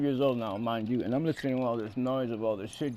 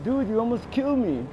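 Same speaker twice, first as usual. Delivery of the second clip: yelling back; 9 semitones higher, 4 dB louder than usual. Retold or imitated. Kid yelling at driver.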